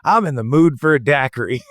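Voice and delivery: high, bright-eyed mock drunk rediscovering. Friend imitating a drunk who forgot, mock eager. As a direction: pretend it's a brand new idea. Drunk forgetting earlier drink.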